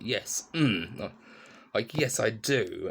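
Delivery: slow, fed-up "yes, I do"; a hint of a sulking child; pouty sulk. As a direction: drag it out like a grumpy toddler, arms crossed. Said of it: "a very fed up, very kind of pouty kind of way".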